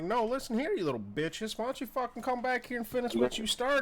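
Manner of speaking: high, loud, furious challenge at the retreating crowd; furious yell. Acted. Fighter yelling at the crowd to come back, furious. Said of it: "I'm like".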